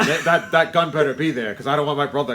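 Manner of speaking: a hammed-up gangster threat; mobster threat. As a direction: growl it like a Godfather hood. Godfather-style threat voiced.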